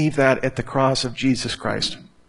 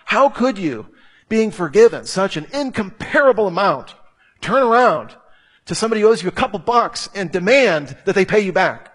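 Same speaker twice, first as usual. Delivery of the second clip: raised, indignant pitch on a retold rebuke; fiery rebuke; 5 semitones higher than usual. Preacher retells Jesus rebuking the unforgiving servant, fiery. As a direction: imitate an outraged, incredulous scolding. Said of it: "Jesus gets pretty fiery about that".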